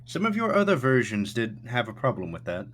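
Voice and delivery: high, hesitant, courteous host; Thatch. Acted. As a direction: give a careful warning in a lifted character voice. Game master voices Thatch warning guest.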